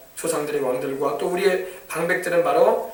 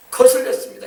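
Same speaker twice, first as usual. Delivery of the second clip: louder, higher confession; pleading cry; 6 semitones higher, 5 dB louder than usual. Pretend. Preacher praying aloud for his people, a raised plea. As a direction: cry it out to God.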